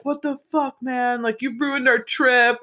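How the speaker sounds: high-pitched mock yell, held back in volume; mock screaming. Angry classmate at the gate screaming at him, high mock yell. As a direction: imitate an outraged scream without really shouting. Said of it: "screaming f-, at him".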